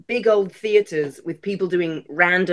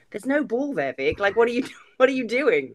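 higher-pitched mock disbelief; retold bafflement; 5 semitones higher than usual. Classmates to the imaginary ball chaser, mock bewildered. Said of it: "everyone was like".

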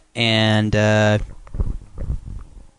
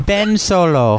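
drawn-out voice; 6 semitones higher, much slower than usual. Pretend. Punning name, drawn out.

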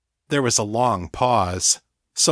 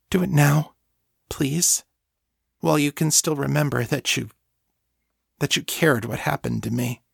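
higher, halting, urgent plea; pleading thrall; 5 semitones higher than usual. Acted. Thrall begging her mistress to feed, pleading. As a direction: beg earnestly, faltering as you go.

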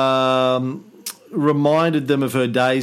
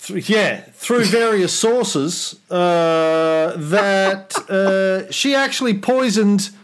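grand, higher emperor voice; roman orator; 4 semitones higher, slower than usual. Acted. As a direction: address the Senate like Nero. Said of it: "Senate and the people of Rome".

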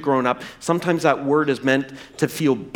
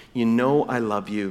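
low-pitched, modest reply; humbled; 6 semitones lower than usual. Retold or imitated. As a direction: admit it humbly, keeping the voice down. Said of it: "He's been humbled now".

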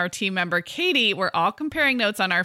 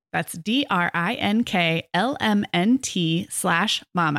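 sponsor ad read. Acted. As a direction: read the sponsor spot like a friendly radio ad. Host reads the sponsor ad.

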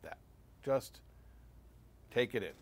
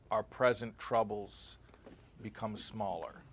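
ordinary talk

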